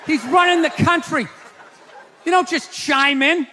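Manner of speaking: a touch of a mock angry rebuke; mock telling-off. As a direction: snap at her to shut up. Telling off a chatty first lady.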